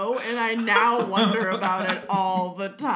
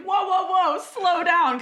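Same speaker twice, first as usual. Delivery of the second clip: mock calming friend; 9 semitones higher, 5 dB louder than usual. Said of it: "I'd be somebody like".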